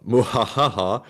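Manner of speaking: mock evil "muhahaha"; read-out villain laugh. Co-host reading a viewer's message aloud, mock villain laugh. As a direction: spell out an evil laugh deadpan.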